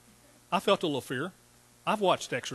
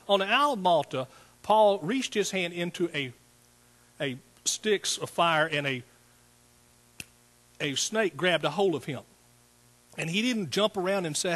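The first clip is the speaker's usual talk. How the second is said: louder, higher sermon delivery; preaching; 4 semitones higher, 3 dB louder than usual. Acted. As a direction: drive the scripture home to the church. Preaches scripture to congregation.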